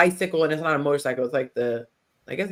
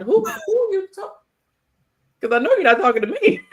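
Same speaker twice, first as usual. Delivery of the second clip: sassy comeback; 13 semitones higher, 4 dB louder than usual. Retold or imitated. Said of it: "You do one of these".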